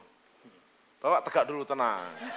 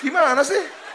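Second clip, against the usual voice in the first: half-hearted angry complaint, higher; mock scolding; 8 semitones higher than usual. Preacher acts a leader scolding Jesus, mild mock anger. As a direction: scold Jesus like a grumpy kid. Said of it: "tapi saya marahin dia".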